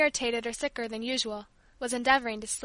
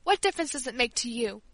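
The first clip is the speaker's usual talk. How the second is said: sobbing. Acted. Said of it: "sobbed Catalina".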